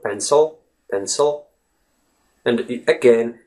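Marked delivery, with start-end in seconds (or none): 0.0-1.5 "pencil" with the I reduced to a light uh; schwa in pencil. Shown as a demonstration. Teacher demonstrating the schwa sound, "pencil" with reduced I. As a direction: let the second syllable of "pencil" relax into a schwa. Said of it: "letter I actually becomes the schwa sound".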